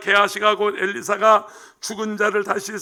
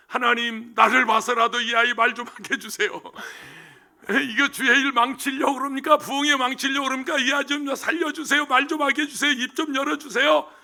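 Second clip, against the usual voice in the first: pleading prayer; 3 semitones higher than usual. Retold or imitated. Pastor prays over mute child.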